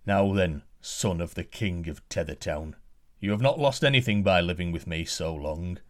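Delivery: a lightly voiced stern giant; giant's voice. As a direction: lay out the offer like a gruff giant. Giant addresses prince.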